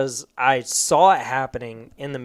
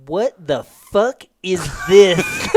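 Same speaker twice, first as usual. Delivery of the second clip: lisping sergeant voice; 3 semitones higher, 5 dB louder, slower than usual. Retold or imitated. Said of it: "the lisp was ... Mike Tyson lisp".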